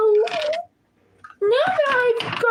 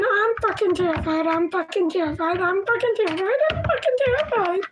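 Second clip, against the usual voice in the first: repeated mantra; 2 semitones lower, faster than usual. Real, not acted. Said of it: "well, I can".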